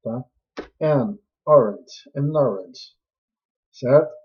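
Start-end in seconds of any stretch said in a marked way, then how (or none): 0.8-3.0 "An orange" drawn out slowly, "an" leaned on; slow model. Shown as a demonstration. Teacher modeling the phrase slowly for students. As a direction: say "An orange" slowly for the class to copy. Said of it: "tem que colocar an orange".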